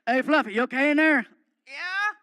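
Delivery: loud, barking tough-guy voice; gruff Stone Cold voice. Retold or imitated. Wrestler calls to Fluffy from his door, loud gruff bark. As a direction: play the brash wrestler calling out. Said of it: "knocking on the door".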